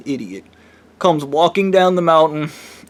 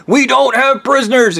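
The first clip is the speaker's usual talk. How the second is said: mocking repeat; 9 semitones higher, 3 dB louder than usual. Weirdo repeats woman's line, higher.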